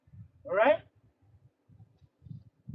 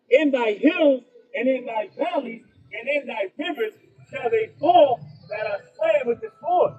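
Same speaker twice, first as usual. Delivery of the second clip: declaiming scripture, rising louder toward the end; booming King James reading; 3 dB louder than usual. Acted. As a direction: read it out like a street preacher building force. Reads scripture aloud to crowd.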